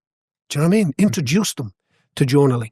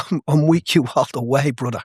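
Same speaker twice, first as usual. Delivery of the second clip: tender encouragement. Retold or imitated. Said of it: "look him in the eye and say".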